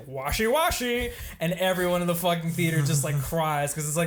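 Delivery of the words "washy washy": higher, louder, slow singsong; comedian mimicking greeter. Comedian calling back the inside joke to the theater, high loud singsong. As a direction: imitate a stand-up's stretched catchphrase. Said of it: "he's like".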